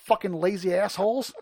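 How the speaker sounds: high, loud exasperated rant; mock angry rant. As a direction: yell at them like a fed-up grandpa. Ranting at hitchhikers in film.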